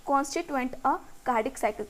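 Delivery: very slow, word by word, so students can write; slow textbook dictation. Shown as a demonstration. Teacher dictating the definition to her students, slowly. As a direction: read each English word out slowly and evenly.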